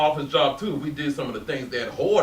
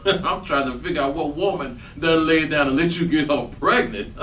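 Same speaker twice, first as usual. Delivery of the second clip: laughing. Acted. Laughing at Michael's news.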